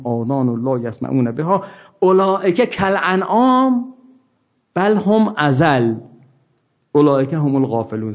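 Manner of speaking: slow, measured Quranic chant; slow recitation of scripture. Acted. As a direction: recite the verse reverently. Recites Quran verses in Arabic.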